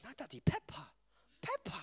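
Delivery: put-on high, whiny little boy refusing; small child whining. Toddler son refusing his dad's cuddle, high whine. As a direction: squeak it out like a toddler glued to the telly. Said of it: "And he goes".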